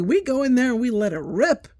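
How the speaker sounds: loud playful bravado; mock bold boast. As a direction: sell it like a cocky dare. Coworker boasting, acted quote.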